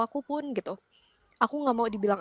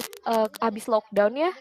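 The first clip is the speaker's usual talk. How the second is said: normal talking voice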